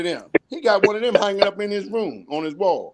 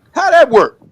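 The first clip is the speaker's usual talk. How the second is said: incredulous; 7 semitones higher, 10 dB louder than usual. Real, not acted. Incredulous rhetorical question.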